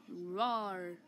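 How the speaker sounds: low, drawn-out pretend roar; mock angry roar. Big monkey pretending to get angry, mock roar. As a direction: give a play monster roar, kept low. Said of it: "I'm getting angry".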